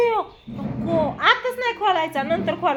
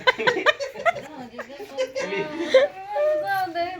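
long wailing laugh; helpless laughter that sounds like sobbing; laughing like crying; 6 dB quieter than usual. Real, not acted. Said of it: "रडताय तेच कळत नाही".

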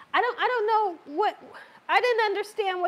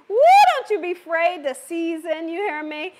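mock stern warning; 5 dB louder than usual. Real, not acted. Scolding viewers about seasoning.

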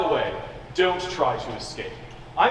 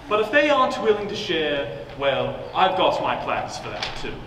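lightly voiced gloating villain; smug menace, savouring each threat; slow theatrical villain menace. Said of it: "my evil villain monologue".

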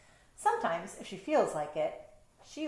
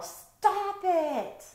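sharp high yell, much louder; 11 semitones higher, 5 dB louder than usual. Acted. Owner yelling at misbehaving cats, a sharp high yell. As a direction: snap it out like an owner at the end of her rope. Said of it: "I yell".

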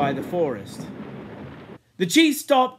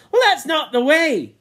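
higher, louder protesting yell; 7 semitones higher, 5 dB louder than usual. Acted. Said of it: "Sam yelled".

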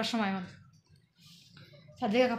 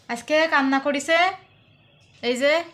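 calling out; 4 semitones higher, 10 dB louder, slower than usual. Real, not acted. Shows crying one to viewers.

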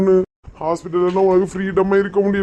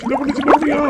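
calling out; 7 semitones higher, faster than usual. Acted. Calling for the old woman.

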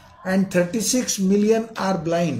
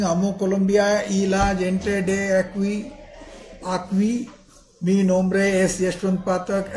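Indian-accented Spanish. Real, not acted. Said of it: "apologies for my Spanish pronunciation".

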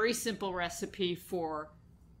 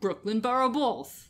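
put-on Brooklyn accent; 3 semitones higher, 3 dB louder than usual. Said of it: "Say it again".

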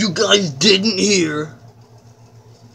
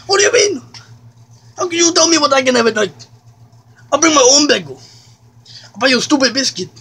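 higher, faster indignant rant; rising comic outrage; 3 semitones higher, much faster than usual. Acted. Ranting at McDonald's over no night bagels, higher and heated. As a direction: let the outrage spill over.

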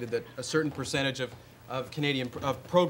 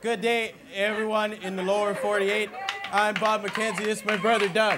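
Bob McKenzie hoser voice; 8 semitones higher, 4 dB louder than usual. Acted. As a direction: play the dopey Canadian brother hosting his bit. In character on a talk show.

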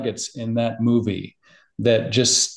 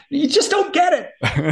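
mock exasperated; slower than usual. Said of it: "I'm like".

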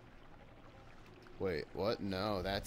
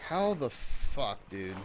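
slow, stretched incredulous exclamation; drawn-out disbelief; 4 dB louder, slower than usual. Real, not acted. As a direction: drag it out in disbelief. Still disbelieving enemy survived.

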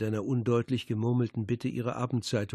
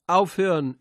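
shouted protest; 5 semitones higher, 7 dB louder than usual. A narrator's reading. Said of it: "ertönte es an den Nebentischen".

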